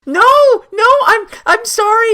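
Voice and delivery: high, squeaky mock panic; hammed-up frantic backpedalling; flustered apology. Flustered playful apology over bunnies.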